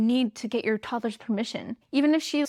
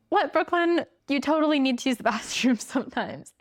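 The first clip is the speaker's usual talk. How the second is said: skeptical listener; 3 semitones higher than usual. Pretend. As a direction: tease her as a doubting viewer, laughing through it. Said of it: "You might be like".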